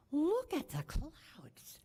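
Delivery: breathless whispered wonder, slow; hushed and slow, spellbound by the storm; awed call. Retold or imitated. Boy whispers in wonder at approaching storm clouds. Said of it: "he yells out".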